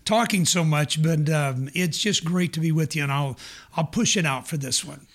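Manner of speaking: hoarse, worn-out voice; losing voice. Real, not acted. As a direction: push through a tired, hoarse voice. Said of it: "I'm losing my voice".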